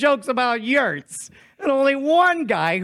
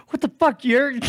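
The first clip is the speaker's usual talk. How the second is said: mock shout; 4 semitones higher than usual. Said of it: "I be like".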